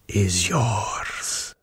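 slow commanding count; slow, measured order to hold back; the Count's voice. Acted. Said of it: "I heard the voice of the Count".

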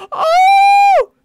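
high, loud wail that tips into a sob-laugh; overwhelmed cry-laugh. Real, not acted. She reacts to the dad's sad story with a loud, high wail.

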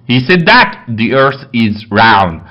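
very slow, word by word reading; slow dictation. Shown as a demonstration. Teacher reading the example sentence slowly to students.

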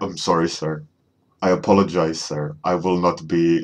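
lightly imitated African accent; a hint of an African accent, mock-formal. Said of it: "that classic African accent".

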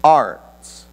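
a touch of exasperation, slow and patient; mildly frustrated caller. Retold or imitated. Caller correcting the operator, slow and mildly exasperated. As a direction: spell it out slowly, half-exasperated. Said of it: "He's a little frustrated".

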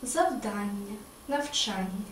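завдання, навчання stressed on the second А; the right way, завдАння, навчАння; correct stress. Shown as a demonstration. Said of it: "Не завдання, навчання, а завдання, навчання".

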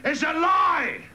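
high, indignant mock shout; woman's shout. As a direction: cry it out high as the outraged woman. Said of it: "the woman shouted".

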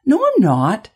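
loud, high protest; indignant denial. A narrator's reading. Boy contradicts being called ignorant.

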